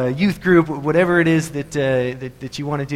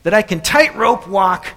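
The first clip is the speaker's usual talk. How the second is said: slow, raised showman's voice; daredevil addressing crowd; 4 semitones higher, 5 dB louder, slower than usual. Acted. Daredevil asks the crowd at Niagara Falls, slow showman's call. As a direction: call out a big challenge to the crowd. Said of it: "turns to the crowd and he says".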